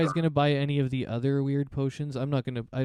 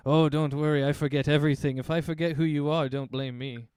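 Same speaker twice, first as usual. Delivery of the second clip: louder, jolly merchant voice; chuckling shopkeeper; 3 semitones higher, 5 dB louder than usual. Acted. Shopkeeper reassures the forgetful customer, louder and jolly. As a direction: joke it off like a cheerful old trader. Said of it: "He kinda just chuckles and he says".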